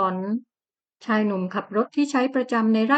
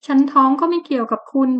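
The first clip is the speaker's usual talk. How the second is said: defiant retort; 3 semitones higher, 3 dB louder than usual. Acted. Heroine defiant toward husband.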